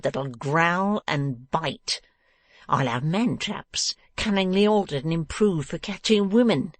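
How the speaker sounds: slow, menacing threats; angry cry. A narrator's reading. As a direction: threaten with relish, building to a loud dismissal. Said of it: "cried the dwarf".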